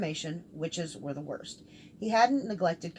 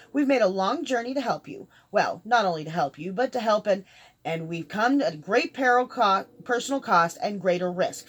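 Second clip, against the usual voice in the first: earnest, talkative mage; 3 semitones higher, 8 dB louder than usual. Acted. Mage telling captive of their journey to help, earnest and loud. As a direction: press your case loudly and keenly. Dorian pleads their good intent.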